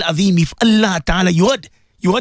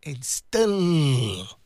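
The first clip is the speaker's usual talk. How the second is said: soft, choked, much quieter; breaking into tears; 6 semitones lower, 6 dB quieter than usual. Real, not acted. Preacher moved to tears mid-dua, choked and soft. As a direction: let the voice crack into a sob.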